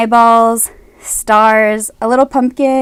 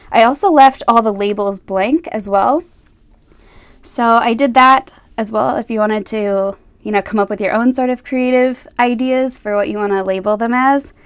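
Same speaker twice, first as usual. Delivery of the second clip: nervous, shaking voice; shaky voice. Real, not acted. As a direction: voice trembling with nerves. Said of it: "My voice is shaking".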